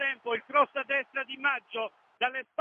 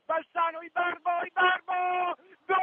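rising, louder goal call; breathless italian goal commentary; 4 dB louder than usual. Real, not acted. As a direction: build up to the goal shout. Goal being scored live. (telecronaca concitata del gol)

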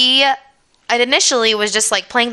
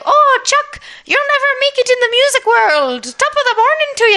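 put-on high, loud would-be Pennsylvania Dutch accent that drifts Irish; stern Amish father in a Pennsylvania Dutch accent; 4 dB louder than usual. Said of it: "that thick Pennsylvania Dutch accent".

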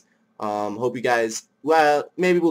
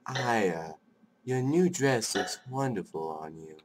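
Father, softly doting; 6 dB quieter, slower than usual. Acted. Voices Father to doll Aya.

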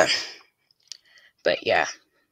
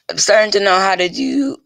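voice crack; 3 semitones higher, 3 dB louder than usual. Real, not acted. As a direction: voice breaks mid-phrase. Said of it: "Voice crack there".

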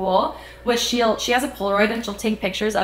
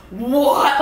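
higher-pitched imitation of a startled double take; mock shocked glitch; 4 semitones higher, 4 dB louder than usual. Singer spots familiar fans at the barricade, mock startled disbelief. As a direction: act stunned, voice lifting into a question. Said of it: "glitches, and she's like".

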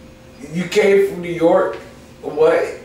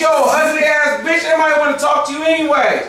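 rejected New York catcaller; 9 semitones higher than usual. Retold or imitated. Host plays a rebuffed New York catcaller, high mock shout. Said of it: "I know how to do the New York accent".

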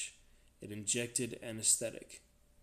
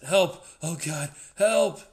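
very loud, high cry for help; frantic, full-voiced yelling; panicked shout; 7 semitones higher, 13 dB louder, slower than usual. A narrator's reading. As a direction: shout desperately into a headset. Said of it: "he shouted".

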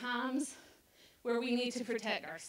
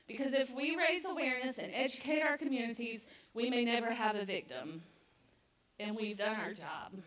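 shaky voice. Real, not acted. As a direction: voice trembling with emotion. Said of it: "Sorry, my voice is shaking".

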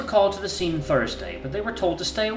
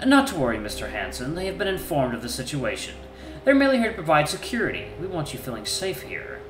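silky, soothing politeness; calm the wolf down smoothly; smooth reassurance; 5 semitones higher than usual. Acted. Prince reassures.

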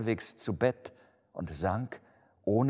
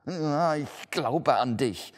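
higher, drawn-out, anxious exclamation; frightened cry; 7 semitones higher, 6 dB louder, slower than usual. A narrator's reading. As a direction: blurt it out slowly, shaken by the ghost. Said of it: "rief Scrooge". (gedehnter, ängstlicher Ausruf)

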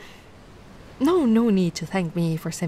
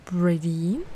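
guiding breath; 5 semitones lower than usual. Shown as a demonstration. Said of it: "Just follow my lead".

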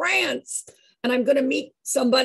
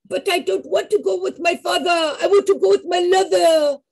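put-on French accent; 4 semitones higher than usual. Madeleine explaining her father and lover, French accent. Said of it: "she had the most lovely French accent".

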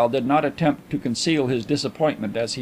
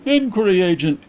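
precise correction; 7 semitones higher, 5 dB louder than usual. A narrator's reading. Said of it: "corrected Mister Carlyle precisely".

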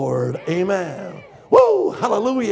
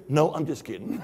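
laughing punchline; 7 semitones lower, 6 dB quieter, faster than usual. Retold or imitated. Preacher retelling his friend's joke, laughing. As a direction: lower and softer through a laugh.

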